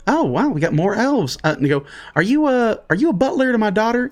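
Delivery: a hint of a nosy parent; lightly voiced rustic. Moonshiner asks the elf about his daughter, lightly voiced curiosity. Rustic host questions the newcomer.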